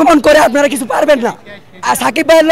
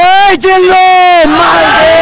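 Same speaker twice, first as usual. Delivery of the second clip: quoting the film's gangster line with a raised, slightly louder voice; movie gangster line; 4 semitones higher, 3 dB louder, slower than usual. Retold or imitated. Fan repeats the film dialogue for the crowd, mock gangster voice. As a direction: deliver it like the gangster hero calling his man. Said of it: "সবাই একসাথে বলবেন".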